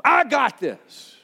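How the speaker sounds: drawn out, stubbornly slow; slow stubborn I got this. Retold or imitated. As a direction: say it slow, refusing to budge. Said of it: "Finances falling apart".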